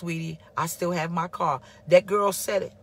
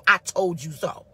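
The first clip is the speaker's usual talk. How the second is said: 1 smug; 2 semitones lower, 5 dB louder than usual. Retold or imitated. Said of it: "always waiting to say".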